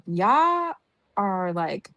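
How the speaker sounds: imitating her disgust at the others, rising at the end; retold outrage. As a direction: scold them, ending in disbelief. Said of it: "I'm like".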